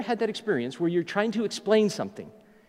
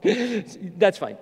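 laughing; 2 semitones lower than usual. Retold or imitated. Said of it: "and he's laughing".

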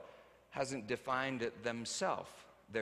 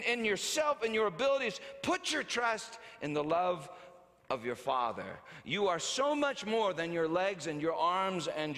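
pleading appeal, somewhat louder and rising; imagined yell; 4 semitones higher, 4 dB louder than usual. Retold or imitated. Father pleading with his daughter, a mild mock yell. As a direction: urge her passionately, in mounting repetition. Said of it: "I wanted to yell".

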